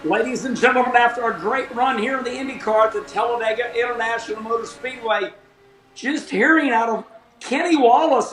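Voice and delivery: light put-on race announcer; playful announcer read, building up the big news. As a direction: announce it like a trackside broadcaster. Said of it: "announce it in my announcer voice".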